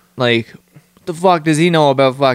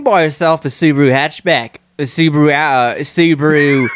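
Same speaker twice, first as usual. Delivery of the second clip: lightly attempted Australian ad narrator; Australian accent; 2 semitones higher than usual. Imitating a commercial for a friend, rough Australian accent. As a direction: have a go at an Aussie car commercial voice. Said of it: "like, Australian guy fucking narrating it".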